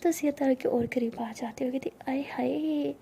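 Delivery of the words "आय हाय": teasing whisper. Acted. Sia mocking shy Tara, whispered tease. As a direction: tease her with a hushed coo.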